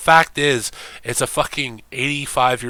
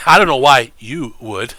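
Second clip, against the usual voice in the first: mock put-on voice; 7 dB louder than usual. Mocking repeat of own line.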